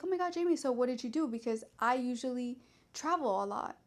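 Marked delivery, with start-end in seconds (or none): 0.0-1.3 cheerful manager. Retold or imitated. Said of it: "She's like".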